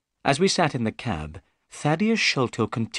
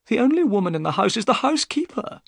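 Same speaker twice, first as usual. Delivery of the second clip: raised, brighter voice for Thaddeus Sholto; Sholto's eager voice; 12 semitones higher, 3 dB louder, faster than usual. Acted. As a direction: voice the excitable little man, pitched up.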